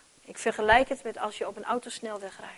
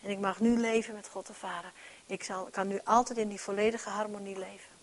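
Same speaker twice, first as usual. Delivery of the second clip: whispered thanks; 5 dB quieter than usual. Pretend. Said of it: "dan zeggen we allemaal".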